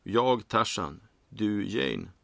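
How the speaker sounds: bored recital of a famous line. A narrator's reading. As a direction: rattle it off without enthusiasm. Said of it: "säger han med en uttråkad stämma".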